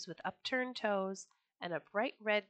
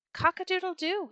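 high, loud rooster crow; 10 semitones higher, 6 dB louder than usual. Acted. Rooster crowing at the Sultan's window, loud and high. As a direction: crow it out to the whole palace. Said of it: "he cried".

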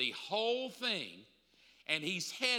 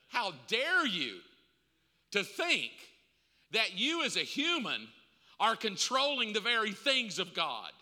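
forceful preaching; 3 semitones higher, 4 dB louder than usual. Real, not acted.

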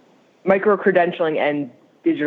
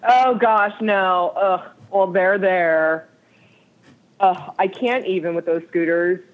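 annoyed ugh; slower than usual. Real, not acted. Groaning about Denver scooters.

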